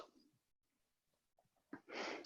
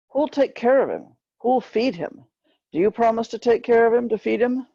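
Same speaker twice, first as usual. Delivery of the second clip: higher, urgent insistent questions; pleading for her brother; 8 semitones higher than usual. Retold or imitated. The girl pleads with passengers to care for her little brother, higher and urgent. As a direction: demand they promise to care for him.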